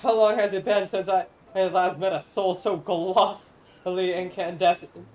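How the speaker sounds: lightly voiced grand old spirit, solemn and theatrical; ancient corn spirit. Corn spirit pleading with the traveler to feed the people, lightly grand. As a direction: speak as a lofty forgotten guardian of the harvest.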